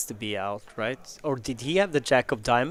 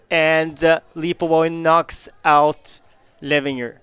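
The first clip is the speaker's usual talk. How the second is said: louder, higher, rising excitement as cards fall; excited play-by-play; 5 semitones higher, 9 dB louder than usual. Real, not acted. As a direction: call the board like it's a thriller. Calling the run-out live.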